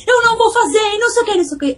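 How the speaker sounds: high, whiny refusing daughter voice; defiant child. Retold or imitated. Daughter refuses her mother's request, high and defiant. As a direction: play the daughter snapping back at mom, pitched high. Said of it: "A mamãe".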